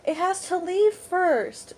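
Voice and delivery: high, very slow mimicry; imitated sleepy insistence. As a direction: stretch it out in a high voice.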